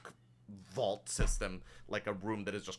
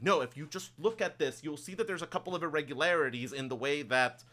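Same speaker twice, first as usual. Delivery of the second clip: higher, quicker voice, explaining; insistent human colleague; 5 semitones higher, 4 dB louder, faster than usual. Acted. Human arguing with the ogre over irregularities, quick and insistent. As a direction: press the point eagerly, pitched up. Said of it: "the human is kind of going".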